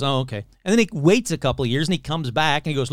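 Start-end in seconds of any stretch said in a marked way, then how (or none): 0.0-0.4 mock meek resignation. Imitates debunked man giving up meekly.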